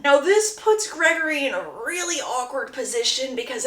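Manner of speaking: ordinary talk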